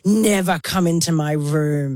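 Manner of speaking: slow, drawn-out mock warning; stern warning. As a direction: imitate a housemate laying down a strict rule. Housemate's forbidding warning retold.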